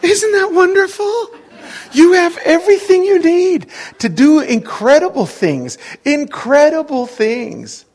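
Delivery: high, loud, ringing exclamation; exultant preaching. Real, not acted. Preacher tells congregation they can do incredible things, exultant.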